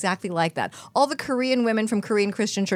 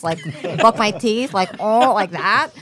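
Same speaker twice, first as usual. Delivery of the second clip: mock stereotype; 7 dB louder than usual. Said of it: "go like this".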